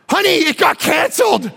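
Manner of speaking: bright mock cry of relief; relieved joy. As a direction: play the introvert overjoyed at the news. Introvert relieved at cancellation.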